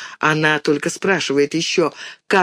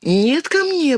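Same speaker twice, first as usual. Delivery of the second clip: pleading; 10 semitones higher, slower than usual. A narrator's reading. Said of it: "просит мышка".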